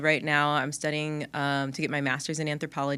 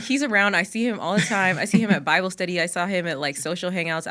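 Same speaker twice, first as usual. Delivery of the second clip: excited; 4 dB louder than usual. Retold or imitated. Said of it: "I was like".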